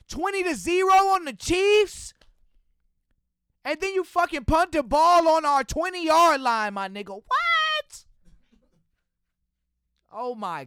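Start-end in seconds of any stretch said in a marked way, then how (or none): 0.1-6.7 high, loud, disbelieving yell; furious shout. Real, not acted. Fan yelling at Bill O'Brien over the punt, furious. 7.1-8.0 very high, incredulous squeal; shocked what. Real, not acted. Fan reacting to the punt, incredulous.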